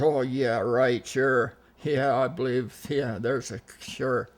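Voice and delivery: imitating a sceptic brushing it off; mock agreement, sarcastic; dismissive scoffing. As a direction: brush off the tall tale. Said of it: "And she snuffed it off".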